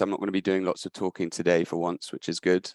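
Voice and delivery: slightly hoarse speaking voice; scratchy voice. Real, not acted. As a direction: talk through a scratchy throat. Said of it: "Apologies for my slightly scratchy voice".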